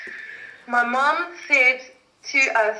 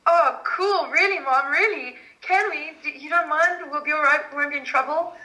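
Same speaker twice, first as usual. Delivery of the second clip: higher, eager imitation of young girls; excited kids; 5 semitones higher than usual. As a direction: play daughters who can't believe their luck. Acts out thrilled young daughters.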